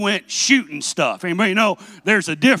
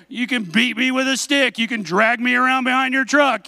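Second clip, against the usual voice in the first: higher-pitched, pleading offers; mock desperate bargaining; 4 semitones higher than usual. Son throwing out punishments to his dad, comic desperation.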